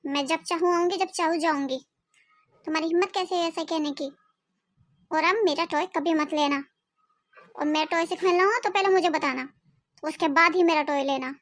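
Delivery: mildly cross telling-off; acted anger. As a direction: scold with a touch of mock anger. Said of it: "आप इतने गुस्से में क्यों हो?". (हल्के गुस्से में डाँटते हुए)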